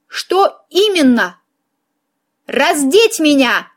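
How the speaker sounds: slow, emphatic outrage; mildly acted indignation; indignant retort. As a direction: throw it back at him, stretching the words. Acted quarrel with the count.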